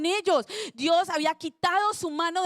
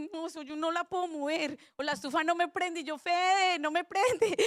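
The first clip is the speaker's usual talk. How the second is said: imitating helpless weakling; 4 dB quieter than usual. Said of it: "yo me sentía así, como débil".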